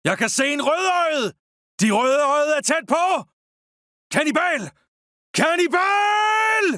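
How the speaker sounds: urgent soldier's warning cry; shouted battle warning. Acted. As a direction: call out danger to the troops.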